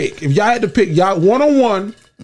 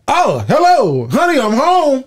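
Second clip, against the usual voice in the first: mock sitcom greeting; 6 semitones higher, slower than usual. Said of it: "I was like".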